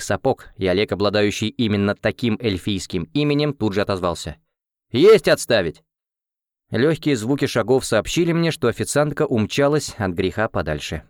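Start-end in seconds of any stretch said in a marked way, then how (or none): 4.9-5.8 громко, по-уставному; отрапортовать командиру; громкий армейский ответ. Acted. Солдат отвечает командиру. (бодрый армейский ответ)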